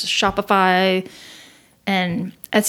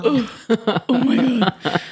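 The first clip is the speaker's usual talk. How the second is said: excited; 4 semitones higher, much slower than usual. Retold or imitated. Starstruck at meeting Friends creator.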